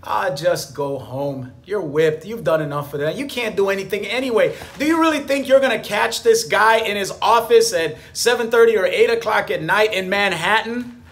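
mild mock doubter; lizard brain voice. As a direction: sneer at the plan, half in jest. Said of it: "the lizard brain said to me".

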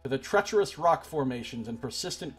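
measured storyteller read; dramatic narrator reading; game text narration. Acted. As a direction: read the outcome like a chronicle. Reads game narration aloud.

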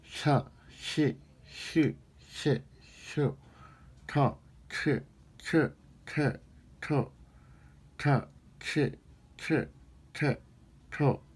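syllable drill with pen bitten; pen in teeth. Shown as a demonstration. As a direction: bite the pen and articulate. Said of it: "이 볼펜을 물고". (볼펜 물고 발음 연습)

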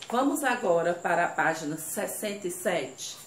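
usual speaking voice

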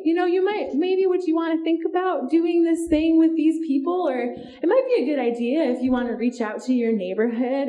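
tentative suggestion. Retold or imitated. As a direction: offer it timidly as if afraid to ask. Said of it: "he's not making a request".

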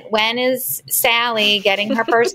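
lightly voiced grandparent, drawn out. Grandparents ask about first communion, lightly put-on grandparent voice. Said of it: "I love the grandparent voice".

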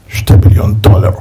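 low, half-whispered valuation; awed whisper. Acted. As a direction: breathe out the sum in awe. Savouring value of each mined stone.

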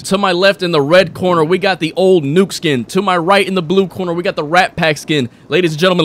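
mock boxing ring announcer. Announcer to crowd at first Warzone boxing match, mock ring announcer. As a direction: present the fighters like a ring emcee.

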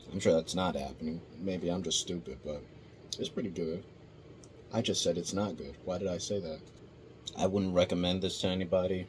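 talking between bites; eating snack while speaking; mouth full, chewing. Real, not acted. Seen 1: Brings canister and snack to mouth mid-clip; holding snack afterwards.

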